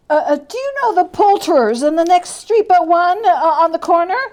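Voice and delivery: high, fast, tumbling joy; giddy old man. Acted. Scrooge shouting down to the boy in giddy rapture. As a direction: rush it out in giddy delight.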